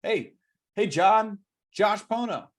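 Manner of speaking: confident agent introducing himself by name; top-producing agent. Shown as a demonstration. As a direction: announce your name like the office star. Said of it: "as if you're a top producing agent".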